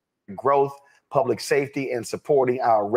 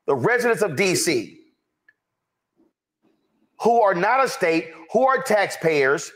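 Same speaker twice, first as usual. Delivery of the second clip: raised, higher-pitched outrage, slowed on the key lines; indignant; 6 semitones higher than usual. Acted. Commentator voicing what the mayor should tell Republicans, indignant. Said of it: "His fake outrage".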